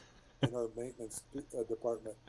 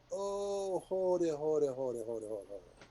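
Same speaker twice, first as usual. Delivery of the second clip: alarmed; 4 semitones higher than usual. Retold or imitated. Ship guy panics over radio.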